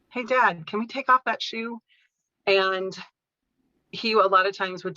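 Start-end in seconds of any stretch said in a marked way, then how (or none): 0.1-1.8 higher-pitched, patient request; gentle coaxing. Retold or imitated. Daughter coaxing dad to undress, gently. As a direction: try a kindly second ask. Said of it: "I would just gently say".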